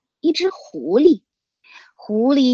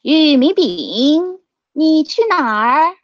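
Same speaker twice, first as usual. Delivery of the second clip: sharp call; 5 semitones higher, 3 dB louder than usual. Acted. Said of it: "用尖锐的嗓音大声问".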